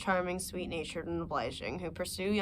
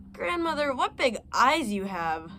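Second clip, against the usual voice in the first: put-on wondering little girl; 4 semitones higher, 4 dB louder than usual. Girl's wondering question.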